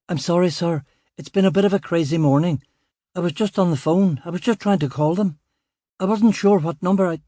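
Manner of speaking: rattled junior officer, eager to please; flustered young constable. Acted.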